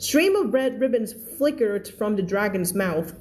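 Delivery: very slow, careful reading; slow read-aloud. Shown as a demonstration. Teacher reading the story line to her class, very slow. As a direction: read it word by word for learners. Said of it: "teacher reads sentence slowly".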